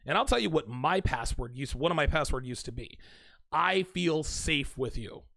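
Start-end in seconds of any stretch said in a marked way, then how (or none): 3.5-5.2 tender whisper-soft. Shown as a demonstration. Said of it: "just saying it to myself".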